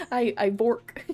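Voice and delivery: put-on accent with W said as V; lightly voiced German-accented farmer; German-style accent. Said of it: "differentiate a V and a Z".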